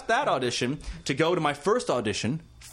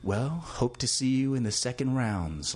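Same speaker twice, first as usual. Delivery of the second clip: put-on old sage voice; 3 semitones lower than usual. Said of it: "like old sage-ish".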